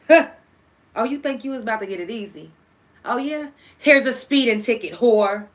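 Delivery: mocking voice of life. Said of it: "life is cussing you out like this".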